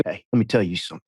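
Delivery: Kyle Chandler. Retold or imitated. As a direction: drop the voice as in an imitation. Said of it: "your Kyle just then, that was spot on".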